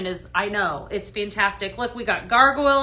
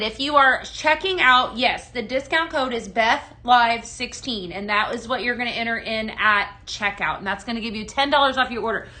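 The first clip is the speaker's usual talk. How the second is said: normal talking voice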